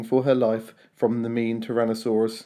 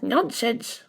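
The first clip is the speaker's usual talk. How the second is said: scolded; 10 semitones higher than usual. A narrator's reading. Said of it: "Their mother scolded".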